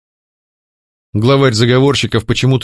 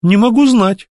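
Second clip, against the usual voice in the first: higher, playful smiling answer; smiling reply; 11 semitones higher than usual. Acted. Heroine teasing the masked man, playful smiling reply. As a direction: toss it off with a smile. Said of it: "улыбнулась я в ответ".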